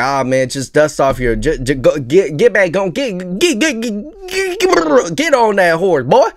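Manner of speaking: stammering pep talk climbing very high; hammed-up, high-pitched stuttering urging; mock pep talker. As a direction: egg them on, stuck on a repeated word. Mimics a pushy pep talker.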